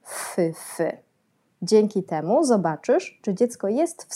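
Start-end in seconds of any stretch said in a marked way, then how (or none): 0.0-0.9 "fy, fy" as two airy swooshes; swallow flight imitation. Shown as a demonstration. Therapist showing parents a swallow flying, two separate "fy" swooshes. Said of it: "jaskółka może latać fy".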